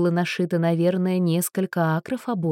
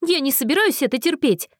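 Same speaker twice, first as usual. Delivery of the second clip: declaring; 7 semitones higher, 3 dB louder than usual. A narrator's reading. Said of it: "объявила она".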